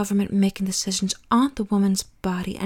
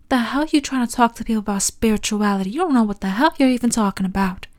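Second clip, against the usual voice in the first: fast, heated and louder; angry; 4 dB louder, faster than usual. Real, not acted. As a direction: rattle it off in exasperation. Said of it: "Oh, let me calm down".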